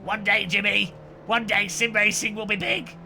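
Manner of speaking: grand hopeful declaration, hammed up; theatrical vow about the future; mock prophecy. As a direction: proclaim it like a prophet.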